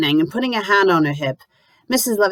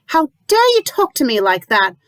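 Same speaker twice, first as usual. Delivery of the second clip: shocked; 9 semitones higher, 4 dB louder than usual. A narrator's reading. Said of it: "Lucy breathes, shocked".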